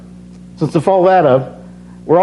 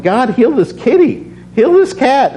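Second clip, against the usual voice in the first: pleading prayer; 8 semitones higher than usual. Retold or imitated. Retold desperate prayer.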